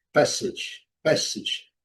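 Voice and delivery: passage said PASS-itch with short i; model pronunciation. Shown as a demonstration. Teacher repeats the word for learners, model pronunciation. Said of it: "então, vamos repetir".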